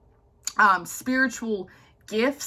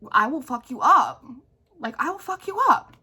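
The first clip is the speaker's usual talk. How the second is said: mock threat; 4 semitones higher than usual. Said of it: "But in reality".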